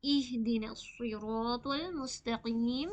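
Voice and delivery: slow इहदिना सिरातल मुस्तकीम with a clear ई; correct recitation. Shown as a demonstration. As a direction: recite it slowly, ई at the start. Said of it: "ई की sound आनी चाहिए".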